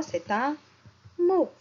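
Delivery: mot lifted up high; emphatic answer. Shown as a demonstration. Teacher answers for the class, lifting mot. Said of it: "Banane, c'est quoi?".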